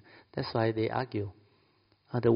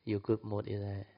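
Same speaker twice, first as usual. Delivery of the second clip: coaxing wife; 6 dB quieter than usual. Retold or imitated. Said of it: "or you say".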